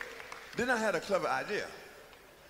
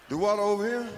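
louder, doubting question; incredulous question; 4 semitones higher, 4 dB louder than usual. Retold or imitated. Willie questions the director, incredulous and louder. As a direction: ask it in disbelief.

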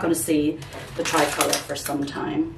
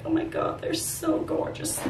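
a higher, breathy gush of longing; gushing over puppies; 12 semitones higher, 5 dB quieter than usual. Retold or imitated. Seeing schnauzer puppies online, a higher, breathy gush of longing. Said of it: "and I was like".

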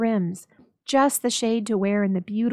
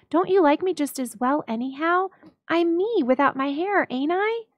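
put-on higher, earnest young wife; Della pleading; 7 semitones higher than usual. A narrator's reading. Della telling Jim she sold her hair. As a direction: insist gently on what she did.

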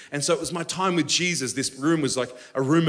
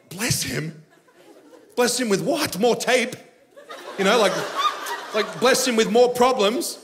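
higher, laughing disbelief; can't believe what he's asked; scoffing amused disbelief; incredulous; 4 semitones higher than usual. Retold or imitated. Incredulous reply to God.

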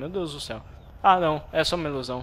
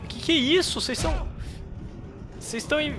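very high pitch; 10 semitones higher than usual. Real, not acted. Panicked at enemies.

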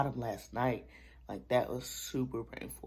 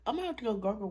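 laughing whine; 8 semitones higher, 9 dB louder than usual. Real, not acted. Laughing and whining to viewers about sore teeth.

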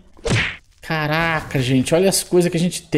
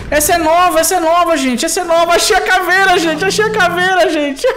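high, loud burst of joy; thrilled, high-pitched repeated cheering; excited shouting; 10 semitones higher, 4 dB louder than usual. Real, not acted. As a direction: blurt it out over and over, overjoyed. Just found the new skull.

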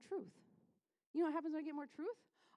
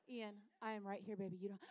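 patient mother; 4 semitones lower, 7 dB quieter than usual. Acted. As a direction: hush a yelling child patiently. Mother calming her yelling son.

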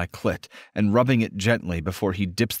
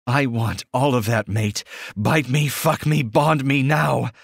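growled demand; 5 semitones higher than usual. Acted. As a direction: demand it with all the force she has. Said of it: "as much growl as I can into my demand".

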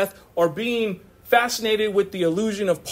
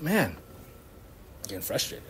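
soft, slow, voiceless inner grumble; muttered under breath; 6 semitones lower, 12 dB quieter, slower than usual. Retold or imitated. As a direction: let it slip out under your breath, fed up. Inner voice, frustrated at work.

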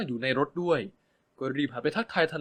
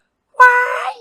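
high, loud delighted squeal; shriek; 16 dB louder, much slower than usual. Acted. Ben shrieks in delight at the news, loud squeal. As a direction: squeal like a fangirl. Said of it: "กรี๊ดออกมาลั่น".

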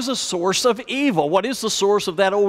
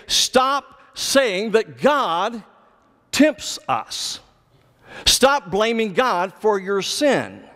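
emphatic rebuke; 3 semitones higher, much slower than usual. Acted. Preacher voices James correcting those blaming God, emphatic rebuke. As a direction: deliver it as a measured, forceful admonition. Paraphrases James's command to the readers.

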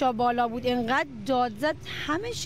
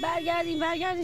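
retold shout; 6 semitones higher than usual. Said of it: "یه نفر بلند داد زد".

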